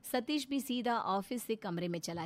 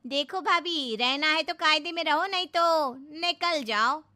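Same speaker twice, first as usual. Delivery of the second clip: higher, louder stern telling-off; scolding; 7 semitones higher, 10 dB louder than usual. Acted. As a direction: lay down the law to her sister-in-law. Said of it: "डांटना शुरू कर देती है".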